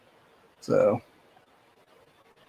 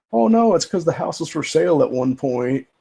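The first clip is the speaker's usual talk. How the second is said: higher-pitched imitation of a fibbing scammer; mock scammer's excuse; 5 semitones higher than usual. Scammer explaining away the sign to a renter, mock excuse. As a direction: put on a lightly mocking, raised voice.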